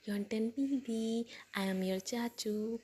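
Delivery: put-on cooing baby talk. Uncle cooing to the puppy.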